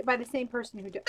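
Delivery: words broken by hiccups; hiccuping mid-sentence. Real, not acted. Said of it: "I have the hiccups".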